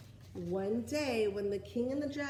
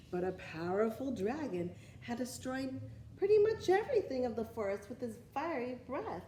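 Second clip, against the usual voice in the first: expressive storybook narration; reading to children. Acted. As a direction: read it like story time for little ones. Reads picture book to children.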